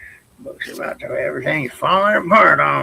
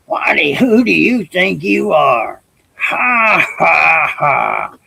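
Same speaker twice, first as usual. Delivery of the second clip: hammed-up royal belly laugh; mocking laugh. Rajah in his tub mocking the bird, hammed-up laugh.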